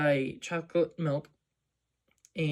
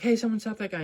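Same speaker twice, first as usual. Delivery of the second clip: calling out; 7 semitones higher, faster than usual. Retold or imitated. Store owner calls after robber.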